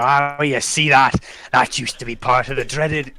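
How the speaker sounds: lightly voiced old-tale seafarer; seafaring storyteller. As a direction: draw out the opening like a ship's yarn.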